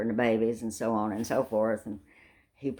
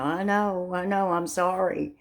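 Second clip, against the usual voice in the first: sheepish apology; 6 semitones higher than usual. Retold or imitated. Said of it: "I'm going".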